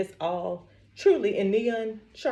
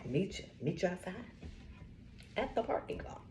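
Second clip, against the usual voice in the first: softer, whispered dare; whispered threat; 13 dB quieter than usual. Real, not acted. Daring the customer to meet outside, whispered threat. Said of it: "challenge whispered".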